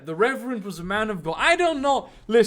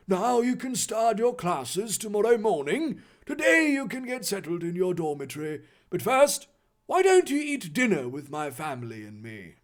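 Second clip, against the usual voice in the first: authoritative announcement; 3 dB quieter than usual. Acted. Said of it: "announced authoritatively".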